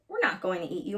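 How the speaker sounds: stern. Acted. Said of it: "said sternly".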